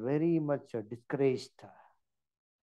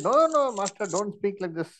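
higher, louder, eager no, no; excited protest; 5 semitones higher, 4 dB louder than usual. Retold or imitated. Peter protesting to Jesus, an eager, higher, louder no. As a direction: protest eagerly like a loyal disciple.

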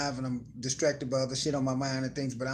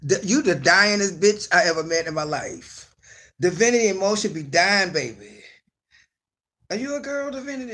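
mock teasing; 6 dB louder than usual. Host teasing a gamer friend who keeps dying. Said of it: "I'd be like".

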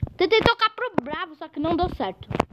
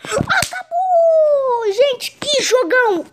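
laughing happily; 3 semitones higher, much slower than usual. Real, not acted. Match ends, laughing.

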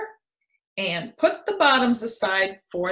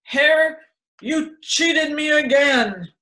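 slow, louder accusing grumble; scowling; 5 semitones higher, 4 dB louder, slower than usual. A narrator's reading. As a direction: let the grudge show. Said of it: "he scowled".

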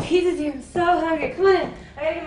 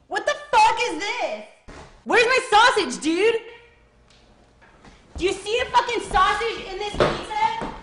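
mocking rant. Customer berating the pizza boy.

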